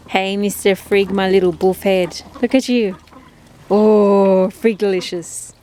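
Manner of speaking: pet talk. Real, not acted. Cooing at the second dog.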